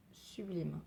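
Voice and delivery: one breathy voiceless word; whispered praise. Real, not acted. Vlogger admiring grey polish, soft whisper.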